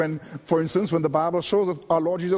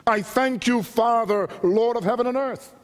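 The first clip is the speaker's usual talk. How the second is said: mildly exultant quoted prayer, raised pitch; rejoicing thanksgiving; 4 semitones higher than usual. Retold or imitated. Preacher voicing Jesus thanking the Father, mildly rejoicing. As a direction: give thanks with measured, lifted joy. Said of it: "Luke says he rejoiced in God the Father".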